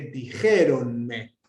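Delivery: dijéronme slow, me attached and unaccented; enclitic demonstration. Shown as a demonstration. Teacher gives a Spanish enclitic example, dijéronme joined. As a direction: stretch dijéronme as one word, stress on jé. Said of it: "Es una palabra enclítica".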